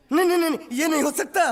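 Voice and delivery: frantic protest. Acted. Servant protests being left behind.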